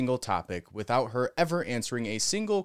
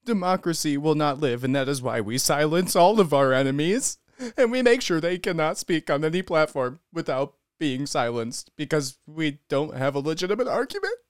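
hammed-up louder parody of her speech; mock press secretary; 4 dB louder than usual. Commentator mocking the press secretary's farewell speech, sarcastic parody. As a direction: put words in her mouth with louder sarcasm.

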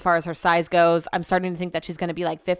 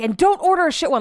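mock-mad order, much higher; Brett; 9 semitones higher, 4 dB louder than usual. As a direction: imitate him issuing a cross warning, pitched up. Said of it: "Like, he's mad at me".

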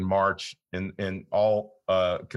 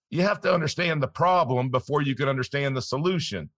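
higher, insistent teaching voice; Nelson Nash; 5 semitones higher than usual. Retold or imitated. Host quotes friend's Bible reading advice, imitated mentor's voice. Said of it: "in perfect Nelson form".

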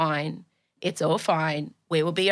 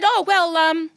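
trying to sound cool; 3 semitones higher than usual. Retold or imitated. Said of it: "I'm trying to be cool".

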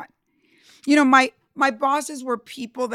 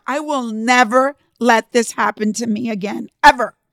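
louder vow that bursts out on ever; determined vow; 6 dB louder than usual. Retold or imitated. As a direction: swear it to yourself with force. Vowing to herself after being dumped.

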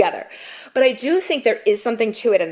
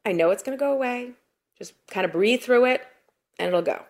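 calm self-talk; 4 semitones higher, 4 dB quieter than usual. Retold or imitated. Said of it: "be like".

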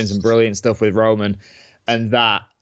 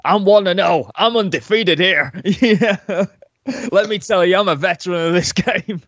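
grizzled veteran; 6 semitones higher than usual. Pretend. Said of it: "grizzled young veteran".

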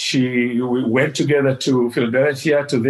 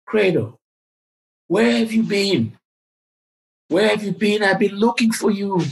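humble laid back; 7 semitones higher than usual. Retold or imitated. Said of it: "in a very humble, very laid back voice".

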